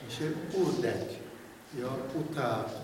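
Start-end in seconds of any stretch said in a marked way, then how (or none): 0.1-1.1 اردک with the first vowel as a short Arabic u. Shown as a demonstration. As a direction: say اردک with a clipped Arabic u at the start. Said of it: "اگه اردک تو عربی باشه".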